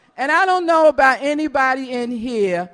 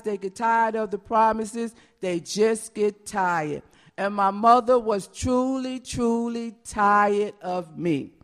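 quiet, slowing, heavy; soft and tired, letting it sink in; somber; 4 semitones lower, 4 dB quieter than usual. Real, not acted. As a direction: let the weariness settle in. Somber reflection on tired mother.

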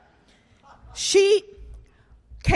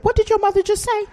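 incredulous; 9 semitones higher than usual. Retold or imitated. Stunned teen reaction.

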